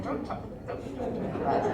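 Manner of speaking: hushed, hissing warning; urgent whisper. Retold or imitated. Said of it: "I'm like".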